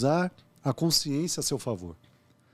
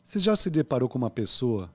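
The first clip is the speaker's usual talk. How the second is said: ordinary talk, nothing marked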